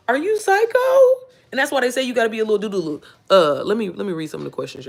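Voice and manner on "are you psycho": high, squealing laugh through the words. Real, not acted. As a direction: crack up while asking it. Mocking herself, laughing.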